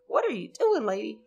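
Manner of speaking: a hint of puzzled parent; lightly voiced puzzled parent; mock parents. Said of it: "his parents are like".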